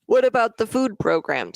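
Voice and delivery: words stretched by a yawn. Real, not acted. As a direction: say it mid-yawn. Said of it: "Sorry, I yawned".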